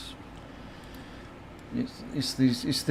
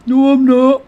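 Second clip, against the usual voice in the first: high, loud whiny denial; indignant kid denial; 12 semitones higher, 11 dB louder, slower than usual. Retold or imitated. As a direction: protest like a sulky kid caught out. Kids arguing, streamer imitates.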